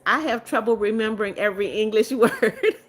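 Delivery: breaking into a laugh at the end; laughing admission. Real, not acted. Streamer reassuring a viewer about forgotten English, laughing. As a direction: let real laughter take over the last word.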